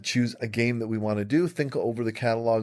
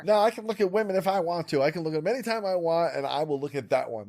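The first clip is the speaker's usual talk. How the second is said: defiant; 7 semitones higher than usual. Acted. Defiant improv character.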